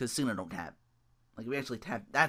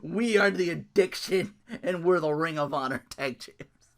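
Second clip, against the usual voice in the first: mock tag team promo.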